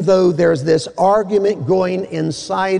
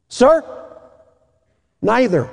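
panicky plea; 6 semitones higher than usual. Acted. Weatherman panicking on wire.

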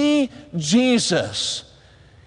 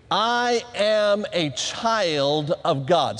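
slow, measured words for repeating; leading a recitation; 4 semitones lower, much slower than usual. Shown as a demonstration. Preacher leading chapel in a declaration, slow recitation. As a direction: stretch each word so a crowd can join. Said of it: "say this with me".

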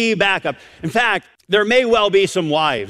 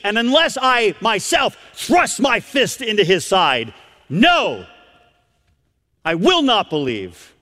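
defiant doubt; 5 semitones higher than usual. Retold or imitated. Acts Thomas doubting and refusing.

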